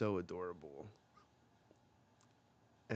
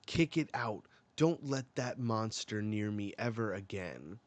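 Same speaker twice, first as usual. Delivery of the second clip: loud mock command; 4 dB louder than usual. Queen orders the monster away.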